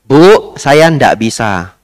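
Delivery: slow, calm, smiling no; calm refusal. Retold or imitated. Monk calmly turns down the lady with a smile. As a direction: refuse gently but firmly. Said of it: "Sambil senyum ya. Ndak boleh marah".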